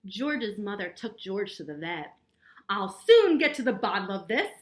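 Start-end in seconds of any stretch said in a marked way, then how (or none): 2.7-4.5 louder, sure vet voice; lightly voiced confident vet. A narrator's reading. Vet reassuring George's mother, a touch louder. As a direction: promise you'll fix it. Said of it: "said the vet".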